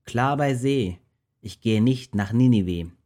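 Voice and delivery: calling out. Acted. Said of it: "rief Jona".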